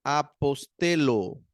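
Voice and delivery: "Apostelo" slowly, with a plain L; teacher's careful "Apostelo" with a simple L sound; single L. Shown as a demonstration. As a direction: draw out "Apostelo", double lambda read as one L. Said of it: "leer como una sola L".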